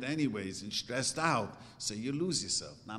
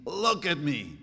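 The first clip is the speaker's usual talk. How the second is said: mock child's yell; 2 semitones higher, 5 dB louder than usual. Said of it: "the child is screaming".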